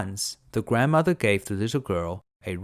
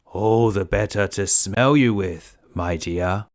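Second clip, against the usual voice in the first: wolf faking granny; 5 dB louder, slower than usual. Acted. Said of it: "answered the wolf".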